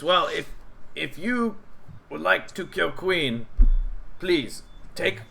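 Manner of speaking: hesitant goblin, asking gently. Acted. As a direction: goblin urging heroes to take a goat. Goblin NPC advice.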